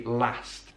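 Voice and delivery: LAST with the short northern "a"; Birmingham-style "last", vowel as in cat; northern pronunciation. Shown as a demonstration. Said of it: "goes with the northern pronunciation".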